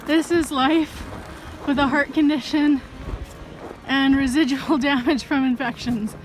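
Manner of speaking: winded and puffing; catching her breath as she talks. Real, not acted. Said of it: "I'm so out of breath right now".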